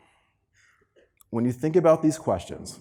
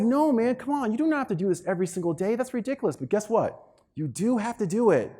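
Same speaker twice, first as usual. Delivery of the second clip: playful teasing; 8 semitones higher than usual. Retold or imitated. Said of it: "I was like".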